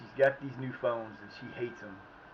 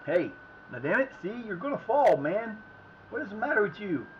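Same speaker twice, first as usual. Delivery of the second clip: exasperated yelling; 10 semitones higher than usual. Real, not acted. Scolding a player on the screen.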